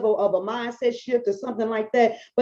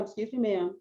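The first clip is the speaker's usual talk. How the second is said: mild reproach; 8 dB quieter than usual. Retold or imitated. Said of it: "She said".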